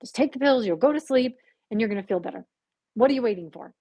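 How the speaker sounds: mildly insistent urging; firm, pushy. Retold or imitated. Imitating the voice pushing her to act, firm. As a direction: press the listener to act, a touch impatient. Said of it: "Now it was a little more firm".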